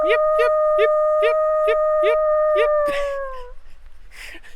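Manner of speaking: very high, loud coyote yips; yappy chihuahua voice. Pretend. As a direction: yip like a coyote pack, hammed-up. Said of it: "Was my yipping good?".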